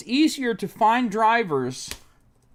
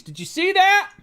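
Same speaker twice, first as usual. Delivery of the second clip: outraged disbelief; 13 semitones higher, 6 dB louder than usual. Real, not acted. Outraged at website.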